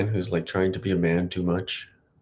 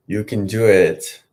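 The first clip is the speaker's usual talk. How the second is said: louder, slower, firm push to himself; firm self pep talk; 7 dB louder, slower than usual. Real, not acted. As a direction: coach yourself on, slow and firm. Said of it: "You can do it".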